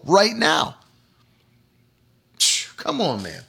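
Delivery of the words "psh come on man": dismissive breathy scoff, low. Real, not acted. Preacher scoffing at doubters, dismissive. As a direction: scoff it away, come on man.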